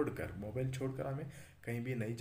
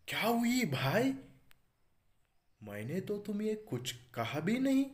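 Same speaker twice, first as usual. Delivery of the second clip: much higher and louder, taken aback; startled; 10 semitones higher, 7 dB louder than usual. Acted. The mobile, startled by the telephone's rebuke, high and loud. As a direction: jump in startled alarm, voice up high. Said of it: "mobile चौंक कर देखते हुए".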